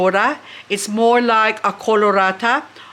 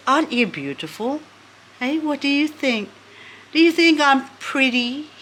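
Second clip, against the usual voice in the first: higher, cooing question to a plant; sweet talk to plant; 5 semitones higher than usual. Real, not acted. Owner coos at her new succulent, higher and sweet. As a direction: coax a compliment out of the plant.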